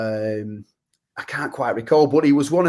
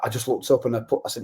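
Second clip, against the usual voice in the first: ordinary talk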